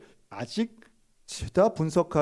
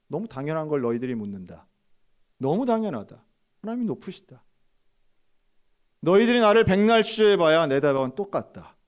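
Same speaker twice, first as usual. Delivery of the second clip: building resolve; 4 dB louder than usual. Retold or imitated. Pastor answering the interrogator, rising to firm loud defiance. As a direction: grow from calm to unshakable.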